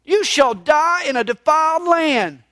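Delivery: bold prophet pronouncing judgment; prophetic declaration. Retold or imitated. Amos announcing judgment to King Amaziah, bold prophetic declaration. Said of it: "what he says to King Amaziah".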